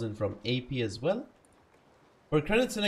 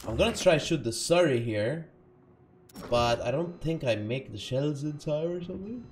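ordinary talk

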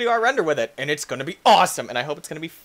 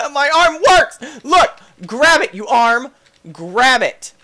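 laughing excited; 7 semitones higher, 7 dB louder than usual. Real, not acted. Cheering his arm.

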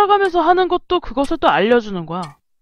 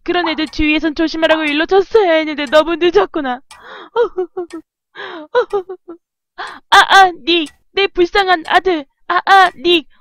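hammed-up weeping mother; sanglots joués; 3 semitones higher than usual. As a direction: wail through fake sobs for your poor son. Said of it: "엄마, 울지 말아요".

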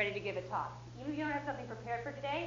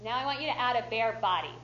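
rally the group with volume; loud coaching call; 7 dB louder than usual. Shown as a demonstration. Coach rallying workshop group, loud and big. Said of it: "So big voice, big body".

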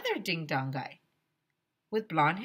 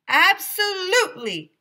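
high, slow, put-on teacher voice; high Mister Klutz voice; 12 semitones higher, 11 dB louder, slower than usual. Teacher cheerfully assures the kids, high put-on voice. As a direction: play the jolly teacher, pitched way up.

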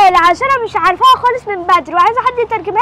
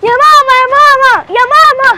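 louder, excited call for mom; a loud, eager call repeated; 3 semitones higher, 5 dB louder than usual. Acted. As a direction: call across the house to mom. Daughter calls mother with news.

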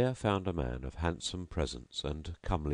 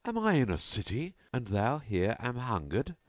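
higher, shocked outburst from the grandee; storyteller's raised exclamation of disbelief; indignant exclaim; 6 semitones higher than usual. Acted. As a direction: cry out in mock dismay at his hunger.

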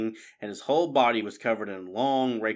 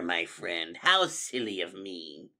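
silky sinister rat; 4 semitones lower, slower than usual. Acted. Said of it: "caressed the fox".

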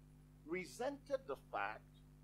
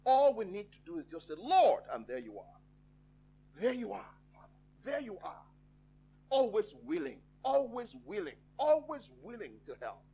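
earnest praise, surging louder on key phrases; fervent prayer; 4 dB louder than usual. Real, not acted. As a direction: pray out with conviction, letting each phrase ring. Opening prayer to the Lord.

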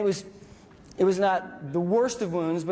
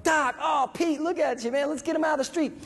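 raised, urgent call to the medic; 8 semitones higher than usual. Retold or imitated. Soldier urging medic to drag wounded buddy, urgent. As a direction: hurry the wounded man out, voice pitched up. Calling out to medic under fire.

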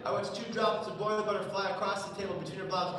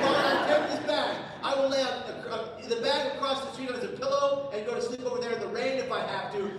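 raised, higher voice arguing back; hammed-up pleading; 6 semitones higher, 5 dB louder than usual. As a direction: plead your case loudly. Pleading loudly after her refusal.

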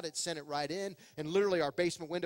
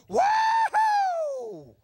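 much higher, loud whooping cheer; excited woo-hoo; 11 dB louder than usual. Shown as a demonstration. Adult entering a room like an excited child, whooping. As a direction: burst in like an overjoyed kid. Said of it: "walk into a room excited like".

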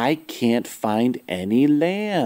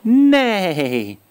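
horse neigh; 6 semitones higher, 3 dB louder than usual. Acted. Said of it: "They say".

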